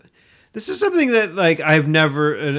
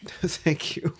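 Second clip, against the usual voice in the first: a soft unvoiced whisper for the talking toilet; 10 dB quieter than usual. Giving the Irish toilet a tiny whispered thank you. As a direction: breathe thank you like a polite little toilet. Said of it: "the toilets talk back and they say".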